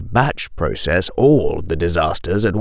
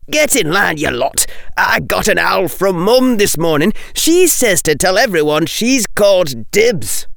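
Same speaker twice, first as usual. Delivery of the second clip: higher, a bit louder call; 10 semitones higher than usual. A narrator's reading. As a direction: call out over the table. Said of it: "Ron Weasley said loudly".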